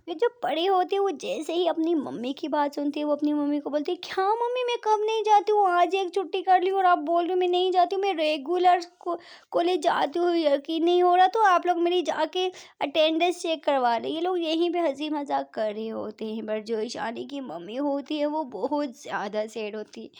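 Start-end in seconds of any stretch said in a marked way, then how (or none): 4.0-14.1 indignant protest. Acted. Daughter protests mother's complaint.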